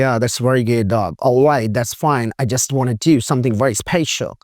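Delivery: slow, drawn-out American accent. Shown as a demonstration. Teacher demonstrating an American accent to students, slow and drawn out. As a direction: stretch the words like an American speaker. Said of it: "American है".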